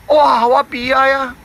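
lightly voiced sorrowful fish; grieving fish. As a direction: moan about your sorrow as the fish. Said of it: "三角鱼讲".

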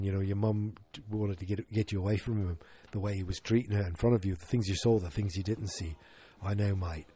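lightly imitated Australian accent; understated Aussie retelling of a serious moment. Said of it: "get me back into the Australian accent".

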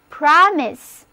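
"promise" with a short open O in the first syllable; short O sound. Shown as a demonstration. Teacher models "promise" for learners to repeat, open O sound. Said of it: "字母O发O的音".

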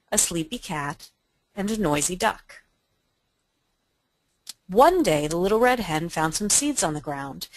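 lively read-aloud for listeners; presenter reading a fable to webinar guests, story voice; storybook narration. Acted. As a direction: tell it like a children's tale. Reads Little Red Hen aloud.

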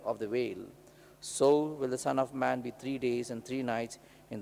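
measured, solemn gospel reading; scripture reading. Real, not acted. Priest reads the gospel aloud.

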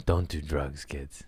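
quiet, sombre warning; putting on a brave face. Real, not acted. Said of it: "I'm trying not to cry".

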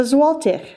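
"złotych" with the ł said like an English w; Polish pronunciation. Shown as a demonstration. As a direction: say "złotych" the Polish way, w sound then a "-tih" ending. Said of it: "a few pronunciation notes".

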